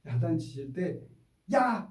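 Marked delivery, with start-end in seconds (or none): 1.5-1.9 sharp high shout of 야!; harsh yell. Shown as a demonstration. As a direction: snap at the child. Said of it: "이러시면 안 돼요".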